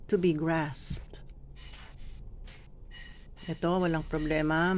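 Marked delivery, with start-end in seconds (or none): 0.1-1.2 grasped ending on sharp s, p and t; crisp final consonants. Shown as a demonstration. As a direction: snap out the end of grasped. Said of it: "Practicein po ninyo yan".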